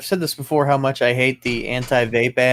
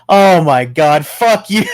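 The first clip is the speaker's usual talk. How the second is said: laughing scoff; 6 dB louder, slower than usual. Real, not acted. Laughing at the vape ad.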